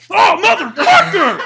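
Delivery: high, loud, slow mock curse; hammed-up scream of disgust; retold disgusted yell. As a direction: howl it out, half laughing. Acting out own reaction to smell.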